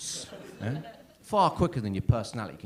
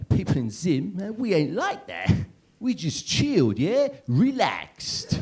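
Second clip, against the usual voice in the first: pitched-up mock Zimbabwean accent; 6 semitones higher, slower than usual. Guest tells comedian about people back home, put-on Zimbabwean accent. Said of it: "that is what he sounded like".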